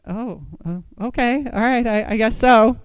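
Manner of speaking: retold stunned, halting acceptance; hesitant agreement. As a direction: agree haltingly, as if caught off guard. Acted stunned, reluctant acceptance.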